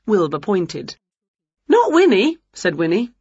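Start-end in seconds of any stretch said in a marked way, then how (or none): 1.7-2.4 high witch voice. Acted. Wilbur's guess rejected.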